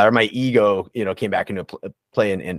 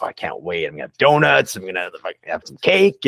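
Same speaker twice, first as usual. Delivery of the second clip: mock eager craving. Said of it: "You're like".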